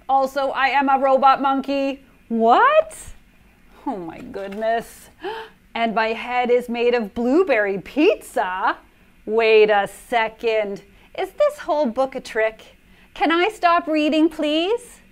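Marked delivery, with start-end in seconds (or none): 0.1-5.5 louder, rising into a shocked what; mock shock. Reader to kids, hammed-up shock. Reading absurd line then shocked. 13.1-15.0 higher, louder whiny plea; mock pleading. Reader begging the kids to let her stop, whiny.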